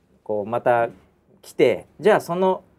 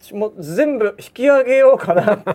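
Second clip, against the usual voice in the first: loud, higher threatening voice; angry threat; 9 semitones higher, 7 dB louder, slower than usual. Retold or imitated. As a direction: threaten to pull everything out. Boss threatening to pull out. (脅す上司の声)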